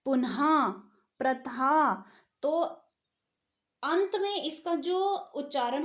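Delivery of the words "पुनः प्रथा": पुनः and प्रथा with a breathy final ha; visarga demo. Shown as a demonstration. Teacher showing visarga's ha ending to students, louder. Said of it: "हा के समान होता है".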